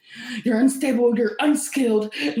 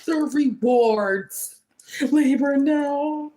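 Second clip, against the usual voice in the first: over-the-top jealous rival near tears; mock anguished whining. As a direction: beg for it to stop, fake-tearful. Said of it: "Anyway, back in character".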